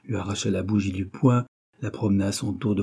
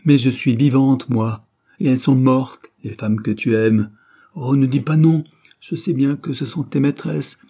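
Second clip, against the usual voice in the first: louder, hard-edged reproach; hard and heated; 3 semitones higher, 4 dB louder than usual. Acted. Wife turns on painter husband in hard fury. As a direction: hurl it back at him, heated. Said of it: "Sa voix redevenait dure et emportée".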